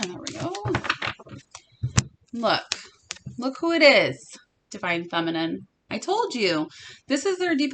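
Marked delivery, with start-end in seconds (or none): 2.3-5.7 delighted at the card turning up; excited reveal. Real, not acted.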